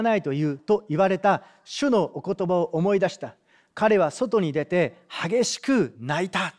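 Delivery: steady read-aloud of a Gospel passage; preacher reading scripture aloud. Acted. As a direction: read the text to the congregation. Reads the Bible passage.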